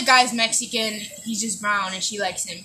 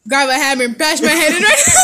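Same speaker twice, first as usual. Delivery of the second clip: laughing; 5 dB louder than usual. Retold or imitated. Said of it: "for example".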